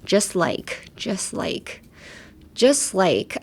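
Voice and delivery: "just" said with the T dropped; silent T in just. Shown as a demonstration. Teacher models "just like" without the T. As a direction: say "just like" blending just into like. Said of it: "pronunciation tips".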